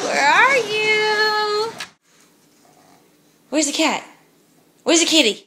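calling a lost pet. Real, not acted. Searching house for the cat.

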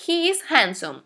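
HE IS HANDSOME evenly spaced, falling at the end; model sentence for repeating. Shown as a demonstration. Teacher has students repeat after her, clear model sentence. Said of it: "repitan después de mí".

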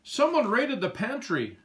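a cat reporting the raid; meowing cat. A narrator's reading. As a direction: meow the words like an indignant cat. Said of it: "meowed Pepper the cat".

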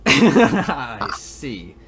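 giggling breathy echo; laughing whisper. Real, not acted. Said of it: "This is my normal".

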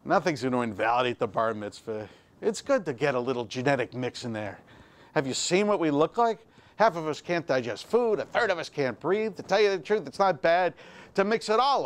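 the rabbi calming the panicked father down, low and dry. Retold or imitated. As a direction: play the unbothered old rabbi. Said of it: "the rabbi looks at me and he says".

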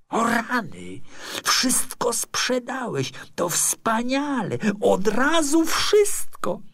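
put-on high, gushing young man's outburst; excited howling. A narrator's reading. Neighbour thinks his friend sold everything, excited howl. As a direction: whoop with delight, then press eagerly for answers. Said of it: "zawył".

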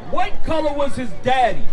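shouted, pressing question; loud challenge. Real, not acted. Preacher pressing listener about Jesus's father, loud challenge. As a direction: throw the question out at full volume.

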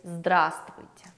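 здравствуйте said slowly as zdrastvuyte; Russian word demo. Shown as a demonstration. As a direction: model здравствуйте for learners. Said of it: "formal way to say hi".

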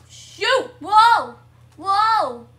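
high, loud yelps; loud, high exclamations of shock; startled shouts. Real, not acted. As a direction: cry out in sudden alarm. Startled by disaster in game.

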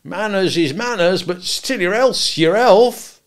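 high, loud appeal, rising in force; aghast. A narrator's reading. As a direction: plead with growing alarm in the voice. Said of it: "all aghast".

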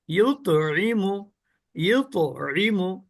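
ইউত slow with the ত bouncing; slow drilled ইউত রিমু with echoing ত; qalqala recitation. Shown as a demonstration. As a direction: let ত in ইউত spring out. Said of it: "আর যদি কলকলা করি".

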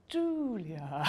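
breathy, overeager cry of her name; gushing greeting. Retold or imitated. To Julia Davis at the audition, an overeager gushing greeting. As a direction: fling the name out as you go in for the hug.

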